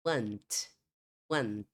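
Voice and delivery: American "want" with an open vowel; American English want, open "ah"; American pronunciation. Shown as a demonstration. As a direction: say want as "wahnt". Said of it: "uma pronúncia mais aberta das vogais".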